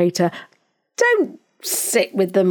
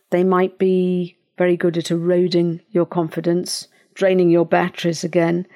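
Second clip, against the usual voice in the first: ordinary talk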